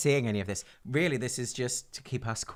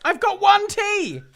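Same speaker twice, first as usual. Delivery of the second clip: high indignant; 10 dB louder, slower than usual. Real, not acted. Only one T in kit.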